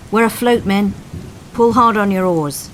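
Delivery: a coxswain's loud, high call over the storm; rally the rowers from the boat; bellowed command to pull; shouted order. Acted. Coxswain calling to his crew.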